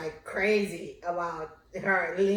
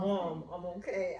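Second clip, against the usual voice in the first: softer, mock-irritated through teeth; through clenched teeth; 4 semitones lower, 9 dB quieter than usual. Daughter hushing her mother through gritted teeth. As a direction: lightly imitate a kid gritting her teeth. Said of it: "And you biting your teeth like".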